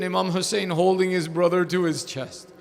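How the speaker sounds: ordinary talk, nothing marked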